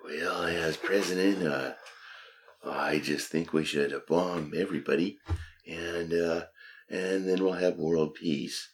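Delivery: lightly voiced old president; a hint of a folksy president; Ronald Reagan. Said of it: "That was Ronald Reagan".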